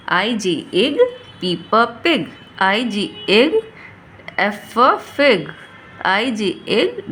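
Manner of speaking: put-on slow, stretched-out sounding out for kids; slow phonics drill. Shown as a demonstration. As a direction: draw each sound out slowly so a child can follow. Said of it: "इस तरह से हम इसको पढ़ेंगे". (बच्चों को धीरे-धीरे खींचकर पढ़ाना)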